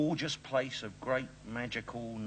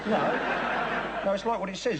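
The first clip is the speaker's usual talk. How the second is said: laughing protest; 9 semitones higher, 6 dB louder than usual. Real, not acted. Protests the curry joke.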